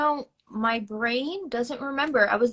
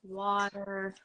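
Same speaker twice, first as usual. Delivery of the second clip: New York accent; 4 semitones lower, 4 dB quieter, much slower than usual. Shown as a demonstration. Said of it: "I'm always like, "Louise, it's".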